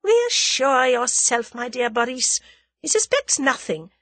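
high, haughty lady's voice; disdainful, self-assured reassurance; scornful. A narrator's reading. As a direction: put him down with lofty scorn. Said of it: "eyed him scornfully".

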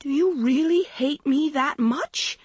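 high-pitched anguished shriek; distraught, pitch way up. A narrator's reading. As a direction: shriek the hurt question. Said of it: "Maggie shrieked".

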